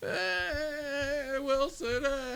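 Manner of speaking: acted infant blubbering, very high, wailing. Retelling a movie scene where a man on a raft is crying: imitating crying like a baby. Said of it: "just crying like a baby".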